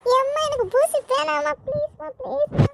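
cling to mom and plead; high drawn-out child's wail; whining plea. Acted. Child pleads before injection.

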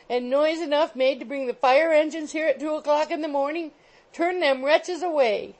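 high, loud landlady tirade; shrill scolding. A narrator's reading. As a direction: rail shrilly at the noisy lodgers. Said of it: "with great shrillness and rapidity of utterance".

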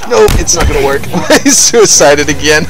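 laughing while talking. Real, not acted. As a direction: laugh through the words. Laughing at enemy suicide.

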